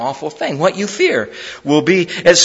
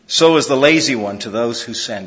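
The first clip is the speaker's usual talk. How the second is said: dramatic reading with little outbursts; read with emphasis; 4 semitones lower than usual. Shown as a demonstration. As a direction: act out the sting of each image. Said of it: "I'll read it with a little bit of emphasis".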